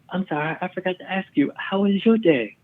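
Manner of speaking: high put-on woman's voice, slowing at the end; imitated erratic passenger. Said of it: "she's screaming at this guy, and then she goes".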